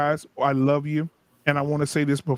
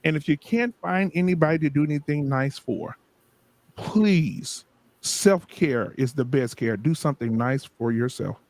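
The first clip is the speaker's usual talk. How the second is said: preacher voice. Acted. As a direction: bless them with a gentle sermon. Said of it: "I'll go back to my preacher voice".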